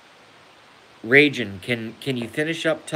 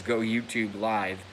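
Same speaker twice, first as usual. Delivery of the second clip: mock robot voice; 5 dB quieter than usual. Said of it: "that says".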